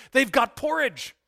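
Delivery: excited Scottish pastor spotting porridge on the menu; excited repeat. Retold or imitated. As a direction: burst out with delight over the porridge. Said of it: "fill in a Scottish accent there".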